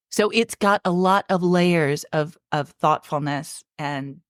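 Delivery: getting choked up mid-sentence; choking up. Real, not acted. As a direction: voice catching with emotion. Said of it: "Are you choking up right now?".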